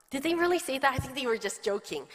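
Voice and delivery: high, loud, startled gasp of a question; stunned disbelief. Retold or imitated. Pastor startled by a child's public announcement, stunned disbelief. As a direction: caught off guard, reaching for a joke.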